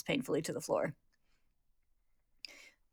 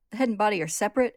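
higher, louder disbelief; incredulous question; 4 semitones higher, 6 dB louder than usual. Acted. Ed learns of two brothers, incredulous. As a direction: blurt it out, pitch raised.

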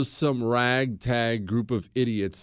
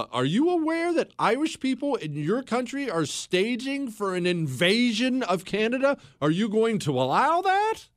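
pointed diplomatic challenge; 7 semitones higher than usual. Retold or imitated. Diplomats confronting the president.

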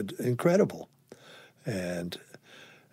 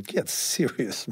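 exasperated retort; 3 semitones higher than usual. Retold or imitated. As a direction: scoff at him in disbelief. Telling off the drunk father.

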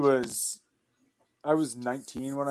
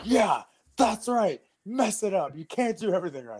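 mock taunting; 9 semitones higher than usual. Trainer mocking him for a mistake.

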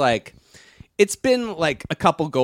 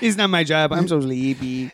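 put-on Chico's accent. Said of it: "that was his catchphrase".

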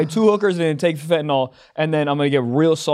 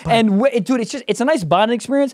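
casual sponsor read with bursts of hype; lightly hyped ad read. Acted. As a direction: sell the meal kit like a buddy, a bit pumped. Reads a HelloFresh ad.

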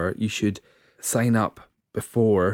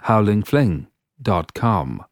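slow, firm, slightly English reading of "Howlin fling dot com"; authoritative English accent; slower than usual. Shown as a demonstration. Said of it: "with more authority and a slightly more English accent that time".

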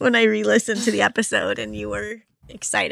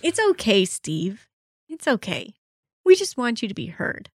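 mock consoling. Host comforting teased co-host, mock-gentle reassurance.

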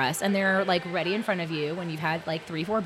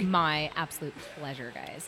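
radio voice; 4 dB quieter than usual. Acted. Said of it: "Speaking of a good radio voice".

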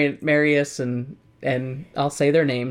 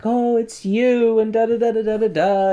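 weary dying man; 8 semitones higher, 3 dB louder than usual. Retold or imitated. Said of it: "he's like".

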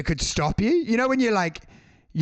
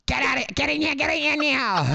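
high urgent call; calling someone over; 8 semitones higher than usual. Pretend. ATM clerk summoning a colleague, high urgent call. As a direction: hurry them in.

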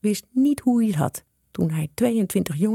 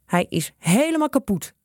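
mildly dismayed, higher pitch; sighing; 6 semitones higher than usual. A narrator's reading. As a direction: sigh it out in dismay. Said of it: "zuchtte hij". (zuchtend, licht ontzet)

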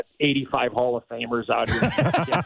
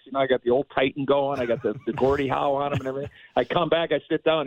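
normal talking voice

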